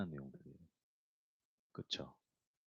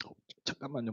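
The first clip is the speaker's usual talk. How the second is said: soft mock tearful plea to wait; imitated choking up; 3 semitones higher, 5 dB quieter, faster than usual. Women asking for a moment as they cry, lightly imitated. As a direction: imitate someone holding back tears, quietly. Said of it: "여성분들 이렇게 뭐 이렇게 할 때 울 때".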